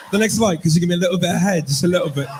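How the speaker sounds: lightly hammed-up English accent; cheeky request in a put-on English accent. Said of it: "English accent, that just roll off the tongue different".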